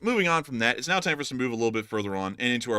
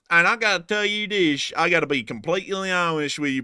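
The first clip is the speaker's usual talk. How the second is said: put-on Alabama accent. Host thanking a donor in a put-on Alabama accent. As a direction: lay the Alabama accent on thick. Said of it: "Had to let our true Alabama voice shine through".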